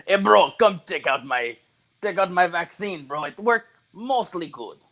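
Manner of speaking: bad Russian accent. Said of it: "I do a terrible Russian accent".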